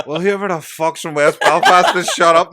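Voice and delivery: loud, high, slow mock telling-off; exasperated shout. Director cutting take to scold extra, exasperated shout. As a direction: bawl out the culprit in imitation.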